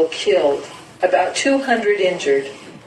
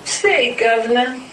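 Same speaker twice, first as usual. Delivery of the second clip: nervous pleading; 6 semitones higher than usual. A narrator's reading. Blind man pleading nervously.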